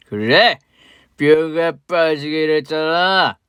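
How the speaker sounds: put-on slow, slurring drunk man, bitter and loud; a sloppy drunk spitting out old grudges; drunk father. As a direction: drunk father accusing the woman he mistakes for his wife. Drunk father confronts ex-wife.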